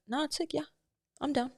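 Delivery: mock flat guy. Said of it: "But guys are like".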